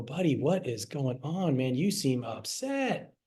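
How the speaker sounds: gentle soothing. Retold or imitated. Kneeling to calm upset child.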